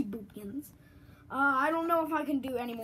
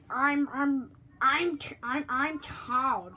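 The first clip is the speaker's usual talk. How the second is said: bad Toad impression; slower than usual. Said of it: "I'm really bad at doing Toad".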